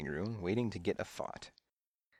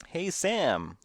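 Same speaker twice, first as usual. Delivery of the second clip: high-pitched, mild yell; 8 semitones higher, 4 dB louder than usual. A narrator's reading. Louise calls after Sam as he leaves, yelling. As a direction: call out to catch his attention. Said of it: "Louise yelled at me".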